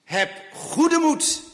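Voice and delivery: "Heb goede moed" cried out high, slow and strong; Jesus calling out over the storm, slow and loud; called out. Acted. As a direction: call it across the storm to the frightened disciples. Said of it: "roept de Heer Jezus".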